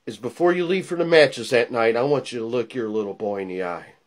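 menacing hush. Acted. Promo ends in hushed threat.

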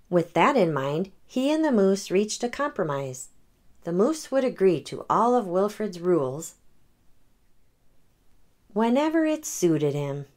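gentle read-aloud storytelling; story narration. A narrator's reading. The speaker reading a picture book to children, gentle. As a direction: read it like bedtime for kids.

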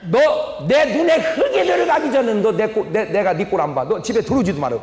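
father slamming the floor and banishing his son; father's outburst. Retold or imitated. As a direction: throw the son out of the house. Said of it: "방바닥을 딱 짚고".

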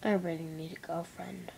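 unvoiced whisper, sick and worried. Real, not acted. Alone to the camera, a real worried whisper. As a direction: breathe the words out with no voice.

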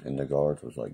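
normal talking voice

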